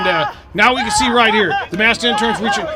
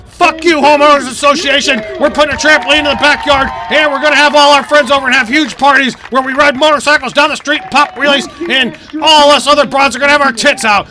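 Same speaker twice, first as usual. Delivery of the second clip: mock rowdy yell; 2 semitones higher than usual. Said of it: "She's yelling".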